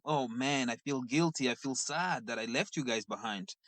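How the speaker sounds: quietly guilty, trailing off; sad and guilty. Retold or imitated. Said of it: "I'm sad and I'm like".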